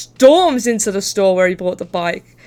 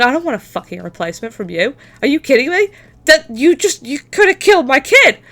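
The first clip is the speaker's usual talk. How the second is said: mock yell, higher and louder, building; angry dad; 4 semitones higher, 6 dB louder than usual. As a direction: tear into the clerk for endangering his kid. Dad yelling at customer service.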